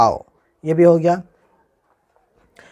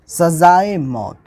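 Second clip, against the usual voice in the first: slow spelling-out; 2 semitones higher, 4 dB louder, much slower than usual. Shown as a demonstration. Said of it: "इसको हम किस तरीके से मिलाएंगे".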